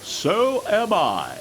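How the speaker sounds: slow big engine voice; a slow, steady Gordon; Gordon's voice. A narrator's reading. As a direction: Gordon answering James, slow.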